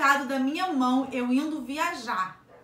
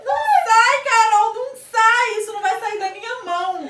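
laughing wail; 8 semitones higher, 10 dB louder than usual. Real, not acted. Mom wailing hand won't come clean.

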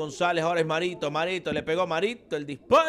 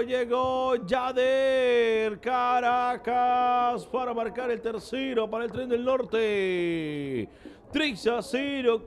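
drawn-out goal call; 4 semitones higher, slower than usual. Real, not acted. Goal announcement.

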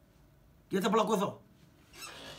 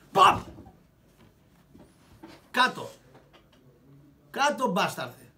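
louder, barked command; mock fight shout; 3 semitones higher, 8 dB louder, slower than usual. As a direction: slam him down shouting. Fight climax, knocking man down. (δυνατή κραυγή καβγά)

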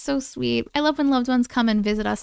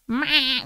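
imitating ugly meow. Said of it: "And she's like".

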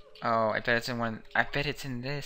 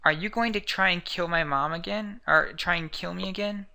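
raised, tense accusation; accusing son; 6 semitones higher, 5 dB louder than usual. Acted. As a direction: throw the charge at her.

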